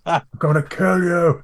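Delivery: slow, laughing repeat of the threat; laughing echo. Real, not acted. Listener repeats the threat, laughing. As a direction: quote it back through laughter. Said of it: "echoing the threat".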